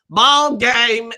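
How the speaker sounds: lightly hammed-up ringside catchphrase; JBL. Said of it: "I hate it when he goes".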